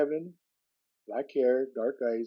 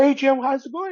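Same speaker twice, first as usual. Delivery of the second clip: higher, louder retold hello; hearty greeting; 13 semitones higher, 5 dB louder than usual. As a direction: imitate a friend calling out hello. Acted jobsite greeting from Carlos.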